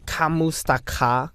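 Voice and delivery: Kamusta ka in a slow, drawn-out American accent. Shown as a demonstration. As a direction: say "Kamusta ka" with broad American sounds. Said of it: "American pronunciation".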